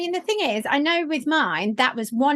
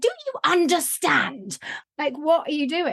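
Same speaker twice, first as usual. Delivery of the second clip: retold outburst; 3 semitones higher than usual. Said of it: "I literally lost it with this woman".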